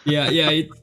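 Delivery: loud nasal yeah yeah; nasal imitation of friend. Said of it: "Outstanding imitation".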